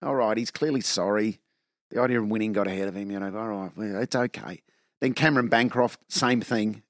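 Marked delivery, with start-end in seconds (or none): 0.0-4.6 softer, lower, relenting murmur; forgiving. Retold or imitated. Australia to tearful Steve Smith, forgiving. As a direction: relent gently, letting him off. Public forgiving a sorry cricketer.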